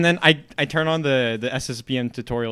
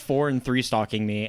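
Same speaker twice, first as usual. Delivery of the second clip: ordinary talk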